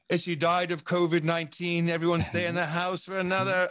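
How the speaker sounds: mock an official in a loose Aussie accent; half-landed Australian impression; attempted Australian accent. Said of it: "that's not my Australian accent".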